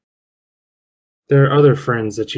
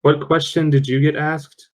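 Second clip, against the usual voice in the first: raised, firmer repeat of a question; repeating on request; 4 semitones higher than usual. Real, not acted. Player asks Logus once more on request, repeating more clearly. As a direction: say it up higher for someone who missed it. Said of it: "One more time?".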